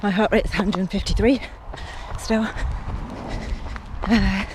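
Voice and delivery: breathless but steady; out of breath. Real, not acted. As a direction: keep talking through the run. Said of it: "I'm out of breath".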